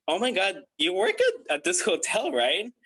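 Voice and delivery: imitated eager, high-pitched questioning; super excited. Hiring manager recognising a hotel worker, super excited. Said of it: "she was like, super excited".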